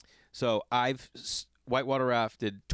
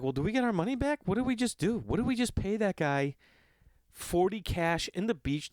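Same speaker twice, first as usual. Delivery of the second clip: indignant disbelief; 8 semitones higher than usual. Retold or imitated. Indignant about money.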